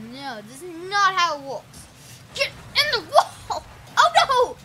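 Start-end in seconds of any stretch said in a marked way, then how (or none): 2.4-4.6 gleeful yell. Real, not acted. Ramming rivals in race.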